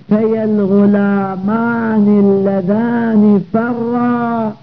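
very slow, drawn-out verse recitation; metrical, stretched Arabic verse; poem recitation. Acted. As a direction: recite the line of verse with long held vowels. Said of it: "كقول الشاعر".

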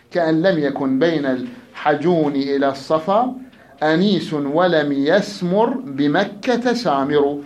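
slow, measured poetry reading; verse recitation. Acted. Teacher reciting a classical verse to students, verse recitation. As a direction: recite the line with drawn-out words.

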